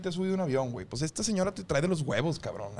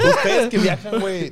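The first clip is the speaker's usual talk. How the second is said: high, loud, still laughing; 6 semitones higher, 5 dB louder than usual. Real, not acted. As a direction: carry the laugh into the question.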